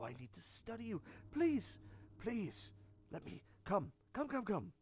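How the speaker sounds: coaxing Volo voice. Acted. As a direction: coax a little creature closer, pitch swooping up. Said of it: "and he's like".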